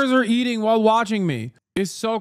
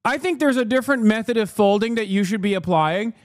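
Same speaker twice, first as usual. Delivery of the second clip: higher, fussy complaining shopper; annoying customer; 5 semitones higher than usual. Retold or imitated. Streamer mocking a fussy retail customer, higher fussy voice. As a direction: nitpick the t-shirt folding. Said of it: "some annoying asshole comes in and is like".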